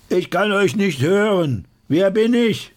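hoch und lauter nachgefragt; hoher anfeuernder Ruf. Acted. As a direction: die Menge anstacheln. Narr feuert Menge an. (hohe, laute Anfeuerung)

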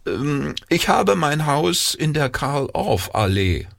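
high-pitched, self-important town mouse; bragging. A narrator's reading. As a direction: show off the fancy address. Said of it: "ein bisschen zu prahlen".

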